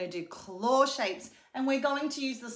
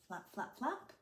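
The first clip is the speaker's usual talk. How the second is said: flap; 11 dB quieter than usual. Shown as a demonstration. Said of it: "Maybe he flies".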